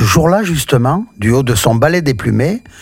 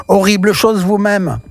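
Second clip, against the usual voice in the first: high, indignant witch retort; a light touch of a cross little witch snapping back; witch shouting back; 7 semitones higher than usual. A narrator's reading. Malapata to the teacher, high indignant retort. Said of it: "en criant".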